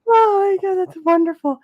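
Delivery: high, loud, laughing delight. Real, not acted. Host thrilled by guest's story, laughing. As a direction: squeal it through a laugh.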